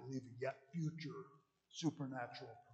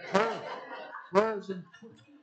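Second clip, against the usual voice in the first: emphatic loud statement; 6 semitones higher, 14 dB louder than usual. Shown as a demonstration. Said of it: "You're supposed to period".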